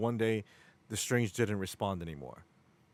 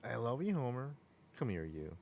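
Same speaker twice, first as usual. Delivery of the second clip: Krusty doll voice; 9 dB quieter than usual. Retold or imitated. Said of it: "He says that exactly".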